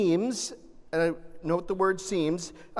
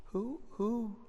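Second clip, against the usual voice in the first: soft, hushed asking of the crowd; gentle quiet question; 10 dB quieter than usual. Retold or imitated. Jesus softly asking who touched him, hushed. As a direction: ask it softly, almost to yourself.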